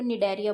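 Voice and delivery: Cnidaria pronounced "ni-DAIR-ia"; silent C. Shown as a demonstration. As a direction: leave the C of Cnidaria silent, start on N. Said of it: "सी शायद से silent होता है". (Cnidaria का C छोड़कर "निडेरिया")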